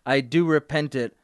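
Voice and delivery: dramatic reading. Acted. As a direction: read it out like an unrepentant villain. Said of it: "can I try one of the passages".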